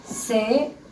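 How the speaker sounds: "Cepillo" softly spaced, ce... pi... llo; separated syllables. Shown as a demonstration. Teacher separates the word for pupils, separated syllables. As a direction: split "Cepillo" into three soft beats. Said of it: "vamos a separar".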